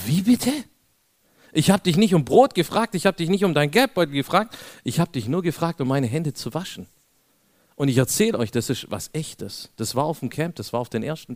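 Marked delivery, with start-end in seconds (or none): 0.1-6.9 higher, louder outraged protest; indignant retort. Retold or imitated. Preacher retelling his outraged answer to the ranger, loud indignant protest. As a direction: fire back, stunned and offended. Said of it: "wisst ihr, wie ich reagiert hab? Ich so".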